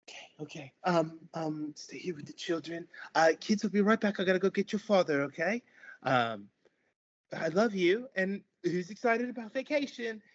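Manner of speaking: high, loud bustling mother; cheery otter mom. Acted. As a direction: round everyone up with forced cheer. GM voices the mother.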